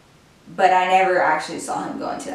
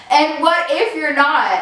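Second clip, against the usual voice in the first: mocking echo; 5 semitones higher than usual. Girlfriend echoes boyfriend's words back, mocking and indignant. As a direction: echo "what if you're not" back, higher and sharper.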